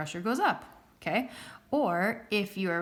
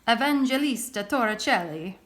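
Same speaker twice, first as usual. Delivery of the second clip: Evangelista Torricelli in a hammed-up Italian accent, rolling it out louder; teacher tries her best Italian accent on Evangelista Torricelli; 2 semitones higher, 4 dB louder than usual. Shown as a demonstration. Teacher jokingly shows class her mock Italian accent. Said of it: "in my best Italian accent".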